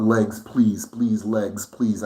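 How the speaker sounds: pleading with the legs, a touch whiny; mock pleading. Shown as a demonstration. A lazy sleeper mock-begging his legs to get up. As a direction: beg your legs half-jokingly. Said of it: "It's not".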